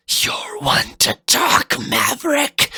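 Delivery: sneering, hushed comeback; scornful retort. Acted. Fafnir retorting to Zero, lightly scornful. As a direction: spit the name back at him. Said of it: "Fafnir responded".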